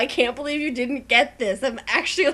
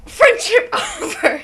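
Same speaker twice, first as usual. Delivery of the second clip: high laughing burst, louder; 12 semitones higher, 8 dB louder than usual. Real, not acted. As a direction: laugh through the words. Jokingly ends the friendship.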